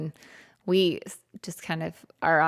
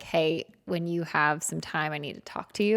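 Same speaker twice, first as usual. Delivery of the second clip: serious request; 4 dB quieter than usual. Retold or imitated. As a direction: ask gravely for time to talk. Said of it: "if you have something serious".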